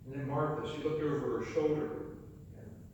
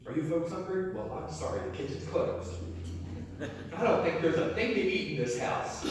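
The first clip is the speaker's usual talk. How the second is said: gloating. Pretend. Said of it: "And I'd gloat".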